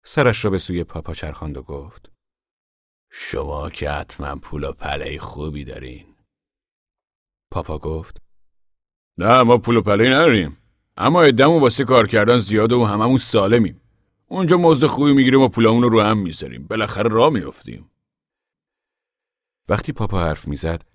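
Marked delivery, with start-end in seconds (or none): 3.1-6.1 soft, slow, knowing drawl; a worn-out stranger sizing them up; ragged man voiced. Ragged man to Papa, softly and slowly. 9.2-17.9 loud, earnest farmer's voice, raised high; a proud father of the family speaking out; Papa voiced. Papa addressing the gathered men, loud and earnest.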